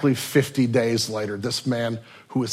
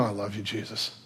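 soft, lower, hushed confession; head-down reply; 3 semitones lower, 11 dB quieter than usual. Acted. Peter answering Jesus with his head dropped, soft and hushed. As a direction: let it fall out quietly, ashamed. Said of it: "Peter just kind of maybe dropping his head goes".

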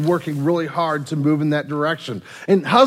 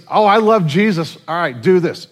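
flippant believer; 5 dB louder than usual. Retold or imitated. Mock shallow believer.

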